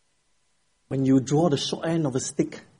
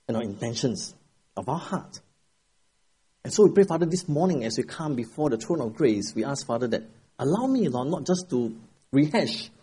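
prayer. Acted. Pastor praying before the sermon, earnest prayer voice. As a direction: pray it over the congregation.

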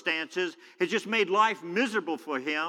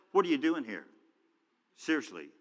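God's flat question; 2 semitones lower than usual. Retold or imitated. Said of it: "and God says".

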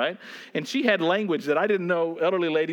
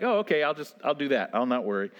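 mock easy compliance; 2 semitones lower, faster than usual. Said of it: "I love how easily he says that".

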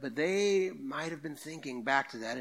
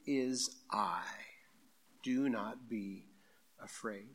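hushed reassurance; 3 semitones lower, 5 dB quieter, slower than usual. Acted. Voicing Jesus's calming words.

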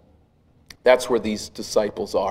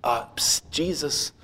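soft, hushed little psst; mock-timid, very quiet nudge to a sleeper; gentle wake-up; 9 dB quieter than usual. Imagined disciples gently rocking Jesus awake, hushed. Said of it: "gently rock him and say".

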